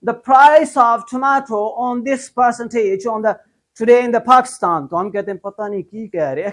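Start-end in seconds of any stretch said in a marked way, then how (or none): 0.1-4.9 slow imitated news anchor; mock news anchor. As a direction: drawl it like a CNN reader. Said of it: "news channel वाले CNN क्या कहते हैं". (धीमा नकली news anchor)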